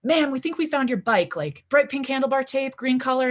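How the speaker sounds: put-on lightly done Central Maine cop accent. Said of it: "in this thick Central Maine accent".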